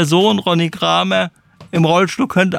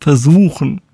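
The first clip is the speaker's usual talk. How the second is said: "Versuchen" set apart after a pause, emphatic; Betonung auf Versuchen; 3 semitones lower, 3 dB louder than usual. Real, not acted. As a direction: drop "Versuchen" in alone as a pointed reminder. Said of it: "ich betone versuchen". ("Versuchen" einzeln und nachdrücklich betont)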